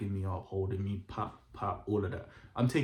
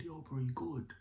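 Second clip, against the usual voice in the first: innocent friend; 5 semitones higher, 4 dB quieter than usual. Retold or imitated. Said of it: "sounds so innocent".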